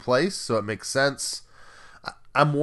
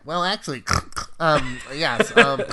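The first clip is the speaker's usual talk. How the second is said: higher pedantic well-actually voice; hammed-up know-it-all nerd; 6 semitones higher, 4 dB louder than usual. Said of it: "snorts in there to make it clear it was a nerd".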